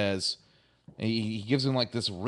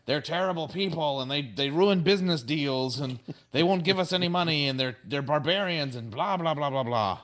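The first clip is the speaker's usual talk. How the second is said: higher-pitched, rattled-off complaining; mock yelling; 4 semitones higher than usual. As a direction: imitate whiny protesters piling up grievances. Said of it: "the Ferengi start yelling".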